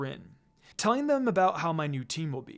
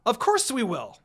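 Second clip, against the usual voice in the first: yelled; 5 semitones higher, 3 dB louder than usual. A narrator's reading. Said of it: "Naruto yelled".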